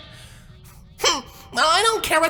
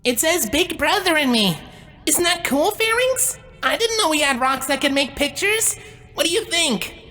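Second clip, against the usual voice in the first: eager showing off. Acted. Showing big brother a rock picture, eager. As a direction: chatter proudly, pitch rising.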